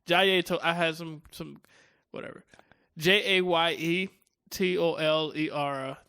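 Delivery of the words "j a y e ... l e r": spelling slowly. Shown as a demonstration. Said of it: "trying to go real fast".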